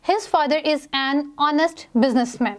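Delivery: slow, careful reading of the sentence; example read aloud. Shown as a demonstration. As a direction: read it out slowly for class. Reads example sentence slowly. (धीमे से उदाहरण पढ़ना)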